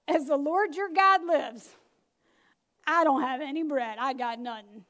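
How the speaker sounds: a touch of a hopeless widow, slow at first; lightly voiced tired widow; weary widow. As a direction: voice the poor widow giving up. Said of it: "That's my version of it".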